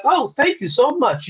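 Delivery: high-pitched, gushing thanks; retold proud thank-you, pitched well up; proud gratitude. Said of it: "I was very proud".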